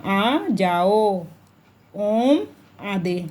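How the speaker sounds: slow call with each vowel held long; drawn-out call. Shown as a demonstration. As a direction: call "हे राम, आ जाओ" as if to someone far away, stretching the vowels. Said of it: "इस तरह का ये होता है प्लुत स्वर".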